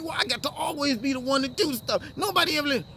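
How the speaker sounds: put-on high, whiny child-to-parent complaint; playing the victim. Grown person talking child to parent, acted victim whine. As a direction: whine it like an aggrieved kid, put on. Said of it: "now you're playing the victim".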